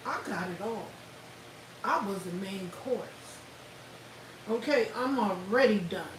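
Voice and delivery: quietly mocking Cassie gloating; smug and low, rubbing it in. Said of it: "Cassie like".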